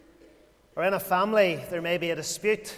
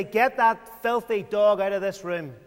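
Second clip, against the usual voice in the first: raised, urgent order to get the dog out; protective, alarmed shout to clear the room; urgent command; 3 dB louder than usual. Pretend. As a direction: drive the snarling dog from the baby's room. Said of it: "you would say".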